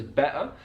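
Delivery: "better" with a glottal stop, no t; dropped T. Shown as a demonstration. Teacher demonstrating the dropped t in Cockney "better". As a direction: drop the t in "better", Cockney style. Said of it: "he's dropping the T in better".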